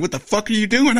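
high-pitched, alarmed mock yell; retold scream. Soldier screaming at sleepwalking doc, high retold yell. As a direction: yell it high, reenacting your startled protest. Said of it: "I start screaming at him".

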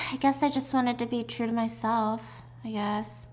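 quiet, hesitant confession; soft admission. Retold or imitated. Daughter confiding why she did it, soft and tentative. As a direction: admit it softly, trailing into quiet.

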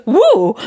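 loud little "woo" of losing balance; mock stumble whoop. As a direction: imitate a startled tripper. Imitates husband stumbling off sidewalk.

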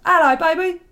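high, loud doting dad on voicemail; imitated dad. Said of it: "was my dad going".

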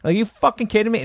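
high, exasperated outrage; outraged. Real, not acted. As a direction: let the disbelief boil over. Outraged at the bouncer.

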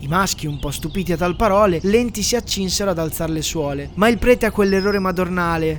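a lightly solemn storyteller reading verse; a touch of mock-grand narrator; solemn poem narration. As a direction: recite it like a grand old poem over music. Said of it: "la voce soave ed elegante del narratore".

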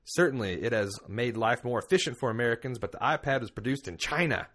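playful Southern accent mocking the politician's words. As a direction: read the congressman's quote in a mock Southern voice. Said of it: "a Southern ignorant person's accent".

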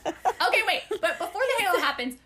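can't stop giggling while reading; laughing. Real, not acted.

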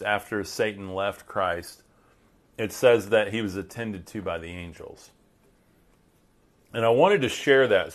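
talking while crunching a cough drop; words around a crunchy cough drop. Real, not acted. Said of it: "Sorry, I'm crunching down on my".

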